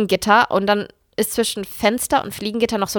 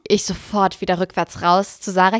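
ordinary talk

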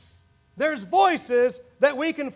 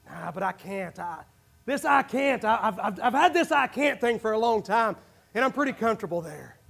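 reluctant inner voice; 3 semitones lower than usual. Retold or imitated. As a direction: mutter it like a comfortable excuse. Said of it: "There's another voice saying".

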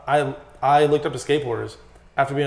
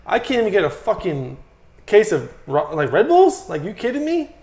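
mock outrage; 7 semitones higher, 4 dB louder than usual. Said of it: "And I'm like".

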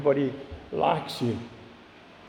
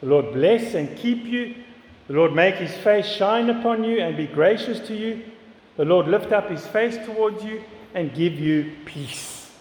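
measured recital of a blessing, voice gently lifted; benediction; 4 semitones higher than usual. Retold or imitated. Preacher recalling the priest's blessing at the tabernacle, benediction. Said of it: "with this benediction".

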